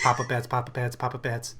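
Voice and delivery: rapid-fire tongue twister; three times fast. Shown as a demonstration. Answering a dare to say it three times, fast. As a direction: rattle it off without gaps. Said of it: "Say that three times fast".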